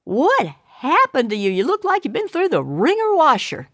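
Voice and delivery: amused. Acted. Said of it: "and he laughs".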